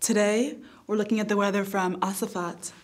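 a lightly voiced mock TV weather girl; perky forecast read with innuendo. Comic weather girl forecasting city to city, mock newscaster.

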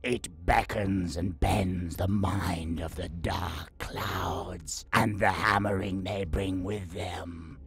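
slow, calm menace; calm, threatening. Acted. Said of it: "in a calm, almost threatening voice".

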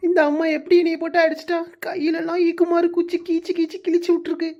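self-pitying whine through tears; tearful complaint. Acted. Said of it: "ஏன் அழுதுட்டு இருக்க".

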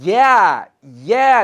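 loud, celebratory mock cheer; demo glad cheer. Shown as a demonstration. Teacher showing the word for being glad, happy cheer. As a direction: cheer as if you just won. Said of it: "แม้แต่เราดีใจค่ะ".

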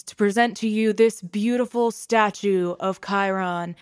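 loud, grand ceremonial address; formal speech. Acted. Guild head honoring the fallen hero, loud and ceremonious. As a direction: read it like a solemn eulogy.

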